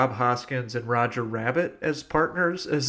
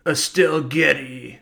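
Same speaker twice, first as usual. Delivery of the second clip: slow, flat machine command; robotic gun command; slower than usual. Pretend. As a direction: announce it like a talking gun.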